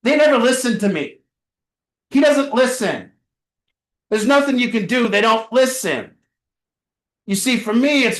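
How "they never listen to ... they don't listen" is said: higher, quicker complaint that blames everyone else; helpless, pointing-the-finger grumble; whiny blaming complaint. Shown as a demonstration. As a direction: whine that nobody ever listens. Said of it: "They say it like this".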